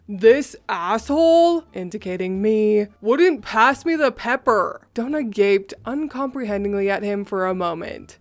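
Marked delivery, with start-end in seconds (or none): 0.1-4.8 drown out the whole room; shouting over everyone. Retold or imitated. Roy shouting over everyone to blame the narrator. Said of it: "shouted over everyone".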